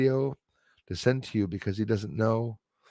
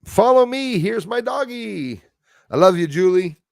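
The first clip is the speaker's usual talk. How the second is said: doting pet talk; 9 semitones higher, 6 dB louder than usual. Real, not acted. Showing his dog on stream.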